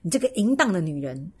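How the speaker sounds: put-on reading a degrading boyfriend's taunt. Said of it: "边骂我说".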